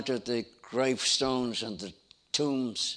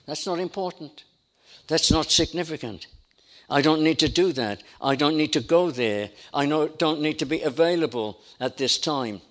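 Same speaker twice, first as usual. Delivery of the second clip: louder, brushing-off voice; mock dismissive shrug in the voice; dismissive excuses; 3 semitones higher, 5 dB louder than usual. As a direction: wave it off like a careless excuse-maker. Voicing excuses of indifference.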